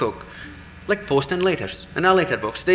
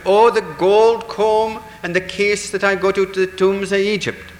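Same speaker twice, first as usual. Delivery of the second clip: crying out; 7 semitones higher, 5 dB louder than usual. Acted. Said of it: "Another one cries out".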